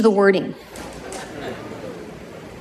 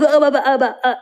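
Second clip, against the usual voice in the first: mock stuttering confusion; flustered stammering; 2 semitones higher, faster than usual. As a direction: imitate someone suddenly lost for words. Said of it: "she opens her eyes".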